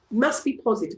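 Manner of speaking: usual speaking voice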